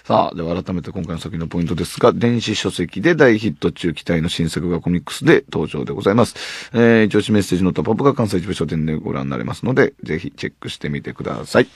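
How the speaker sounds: brisk, tidy announcer read of the manga plug; radio promo read. Acted. Host closing the show with a manga promo, announcer style. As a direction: sell the new manga to listeners.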